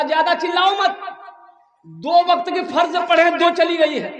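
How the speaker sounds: hammed-up irritated shout; mock anger. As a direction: scold the crying calf in exasperation. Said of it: "तो इसको गुस्सा आया".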